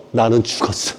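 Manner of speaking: 중얼거림. Retold or imitated. 바울의 절망 재연.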